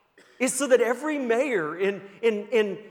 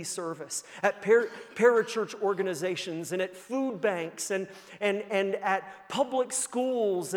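preaching at full force. Acted. Pastor rallying the congregation, preaching at full force. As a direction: preach the vision to a peak. Preacher building vision to climax.

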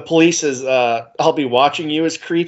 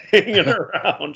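laughing lyric quote. Retold or imitated. Quoting lyric through laughter.

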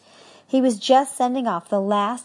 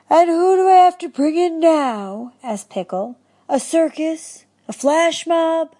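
excited; 10 semitones higher, 6 dB louder than usual. Acted. Eager character questions.

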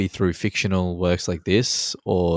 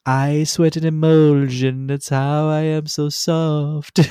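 high, slow, relishing mock recital; quoting the best line; 9 semitones higher, 5 dB louder, slower than usual. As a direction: savour each word, high and slow. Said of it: "the best line out of the whole song".

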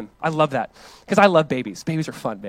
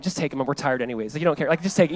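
softer, weary mock shrug; tired joking; 3 semitones lower, 3 dB quieter, faster than usual. Tired parents joking to the sermon crowd, weary and soft. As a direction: sound done in, happy to hand him off. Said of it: "you're kinda like".

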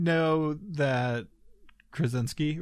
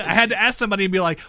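laughing; 7 semitones higher, 7 dB louder, much faster than usual. Real, not acted. Laughing retelling Boston trip.

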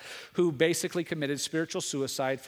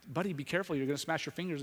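gentle warning to son; 5 dB quieter, much faster than usual. Retold or imitated. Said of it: "And I".

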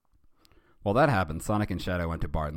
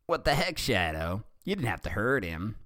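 mildly indignant, raised pitch; a little angry; 4 semitones higher than usual. Acted. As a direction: scold a friend, lightly annoyed. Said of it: "Sonic was a little angry".

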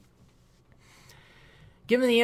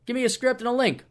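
imitating Jeff; 9 semitones higher, 8 dB louder than usual. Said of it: "He's like".

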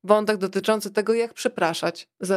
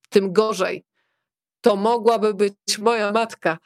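louder, indignant outburst; angry yell; 4 dB louder than usual. Acted. Fum yells that it could be his mother, angry outburst. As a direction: snap it back in outrage. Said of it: "wrzasnął Fum".

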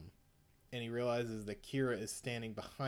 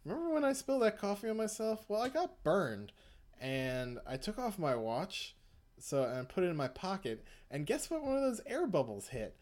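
gloating villain; 7 semitones higher than usual. Retold or imitated. Villain taunting the boy who failed to kill him, smug. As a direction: rub the win in the kid's face.

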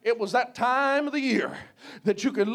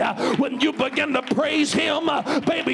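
full-force preaching. Real, not acted. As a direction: preach it hard, punching each phrase with a gasped "uh".

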